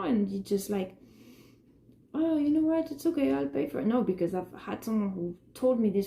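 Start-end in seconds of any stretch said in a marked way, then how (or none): 2.1-3.9 high, sugary offer to pay; sarcastic pitched-up imitation; mock patronising guy. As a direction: parody a smug man offering to cover it.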